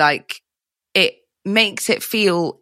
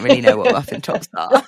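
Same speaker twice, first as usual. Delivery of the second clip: laughing; 7 semitones higher than usual. Real, not acted. Laughs at not knowing term.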